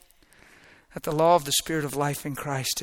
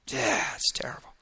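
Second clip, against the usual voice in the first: soft unvoiced aside; whispered aside; 4 semitones lower, 6 dB quieter than usual. Real, not acted. Preacher whispers to church about the deception, hushed. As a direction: whisper it to the congregation.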